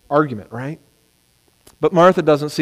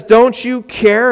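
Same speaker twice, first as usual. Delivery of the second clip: complaining question; 7 semitones higher, slower than usual. Retold or imitated. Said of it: "And she says".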